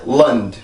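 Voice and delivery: 랜드 as English "lund", long L; reduced vowel. Shown as a demonstration. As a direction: shrink 랜드 to "lund" with a bare D. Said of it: "이 발음으로 바뀌게".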